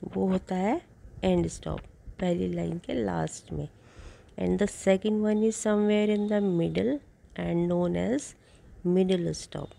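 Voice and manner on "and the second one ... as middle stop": very slow, even reading for notes; dictating notes to a class; slow dictation. Shown as a demonstration. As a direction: read it out word by word so students can write. Dictates next note.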